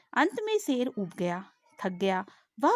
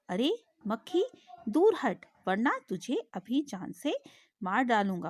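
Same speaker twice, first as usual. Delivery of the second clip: a touch of an angry lion's roar; lion warns the fly, gently hammed up; mild roar. Teacher voicing lion threatening fly, mild mock roar. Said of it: "वह दहाड़ा".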